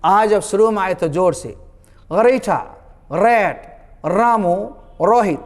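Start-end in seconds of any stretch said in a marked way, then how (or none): 2.1-5.4 गरीठा, रेट, रामू, रोहित with a rolled, stressed r; strong r. Shown as a demonstration. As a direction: hit the r hard at the start of each word. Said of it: "आर को जोर से".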